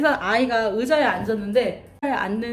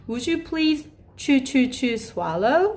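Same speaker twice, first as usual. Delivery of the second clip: put-on child-level talk; 3 semitones higher, much slower than usual. Shown as a demonstration. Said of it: "어린아이 수준에 맞게".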